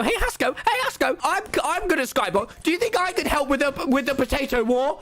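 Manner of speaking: high-pitched, over-keen offer; eager fan pleading. Retold or imitated. Fan asks Hasco to let him help, eager pleading. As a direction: pipe up like an overexcited fan.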